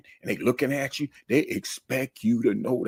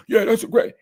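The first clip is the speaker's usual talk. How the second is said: sarcastic yeah great; 11 semitones higher, 6 dB louder than usual. Retold or imitated. Mock reply to student.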